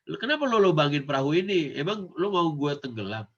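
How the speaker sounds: a cheeky, brusque Jakarta street tone; rude slang version. Shown as a demonstration. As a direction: say it like a disrespectful kid. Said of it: "Jadi Nabi Musa nggak bilang".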